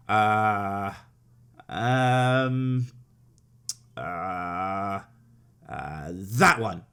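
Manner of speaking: low effortful grunting; straining to bite. Pretend. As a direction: strain like biting something hard. Pretends to bite plastic fruit.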